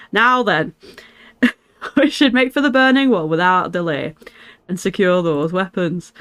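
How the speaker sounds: put-on northern English accent, giving orders in character; attempted Lancashire accent. Streamer resumes the character's lines after apologising, attempted Lancashire accent. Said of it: "I'm trying to go more Lancashire".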